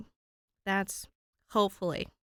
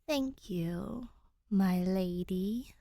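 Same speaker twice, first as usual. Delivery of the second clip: 1 polite thanks; much slower than usual. Acted. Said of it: "Danny replies".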